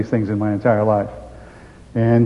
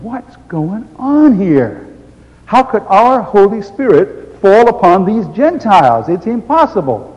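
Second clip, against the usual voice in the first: higher, louder, slow disbelief; astonished Peter; 7 semitones higher, 5 dB louder, slower than usual. Acted. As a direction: let it sink in with disbelief.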